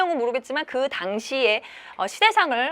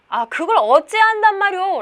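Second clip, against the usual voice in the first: raised, louder defiant protest; defiant retort; 8 semitones higher, 7 dB louder than usual. Acted. Maldong answers back to the land agent, defiant. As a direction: push back with a high, loud challenge. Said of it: "약간 반항하는 듯한 그런 태도".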